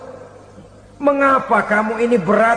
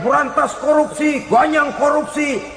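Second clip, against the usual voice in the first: higher-pitched imitation of a slogan shouter; mock protest shout; 4 semitones higher than usual. Preacher imitating a would-be corruption fighter, mock shouting. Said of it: "keras benar teriak".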